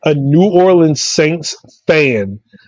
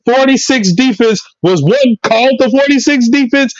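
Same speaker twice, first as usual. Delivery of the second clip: animated, higher-pitched football tirade; comic sports rant; 4 semitones higher than usual. Acted. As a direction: rant like a fired-up sports pundit.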